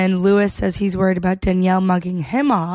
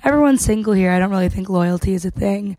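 put-on British accent, lightly done; attempted British accent; faster than usual. Contestant to the confessional camera, in an attempted British accent. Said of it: "are my accents good".

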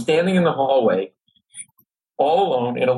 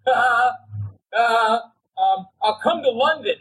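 much higher, nervous squeaky voice; voice cracking up; 8 semitones higher, slower than usual. Retold or imitated. Offering Paul McCartney a podcast, flustered and high-pitched. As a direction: let the voice jump up high from nerves. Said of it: "my voice literally changed to this".

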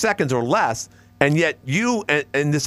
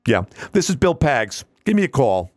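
put-on radio host voice; Bill Pags impression; 2 semitones higher than usual. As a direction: mimic a talk host plugging the phone line. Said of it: "he kinda talks like this".

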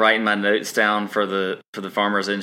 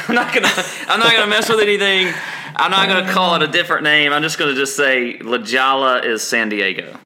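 excited; 6 semitones higher, 4 dB louder than usual. Retold or imitated. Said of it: "I was like".

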